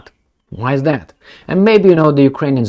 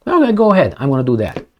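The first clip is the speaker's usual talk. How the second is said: mock defiant reply; 3 semitones higher, faster than usual. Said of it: "they talk like this".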